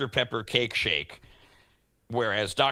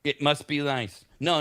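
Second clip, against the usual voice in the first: lightly put-on huffy parent; mock resentment; 3 semitones higher than usual. Host ribbing a co-host with time to microwave, mildly mock-resentful. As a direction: play at envying someone with spare time.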